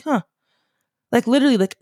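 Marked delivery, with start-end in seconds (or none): 0.0-0.2 little intrigued huh; a brief, curious huh that starts high and drops; small "huh". Retold or imitated. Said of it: "that small, like a".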